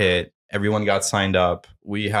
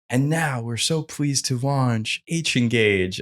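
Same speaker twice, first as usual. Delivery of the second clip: slower, raised launch announcement; stage announcer; 4 semitones higher, slower than usual. Retold or imitated. Hosts launching a product to a conference crowd, mock announcer. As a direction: announce it slowly and higher, as if onstage. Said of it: "they get on stage and they're like".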